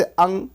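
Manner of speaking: अं sounded through the nose; nasal अं. Shown as a demonstration. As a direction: draw out अं slowly with nasal anusvar. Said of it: "अनुस्वार नाक से इसका उच्चारण करते हैं".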